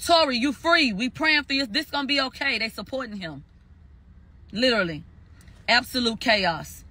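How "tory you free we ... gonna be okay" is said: higher, mock cheering call; retold crowd cheer. Supporters cheering for Tory outside, mock yell. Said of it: "They screaming".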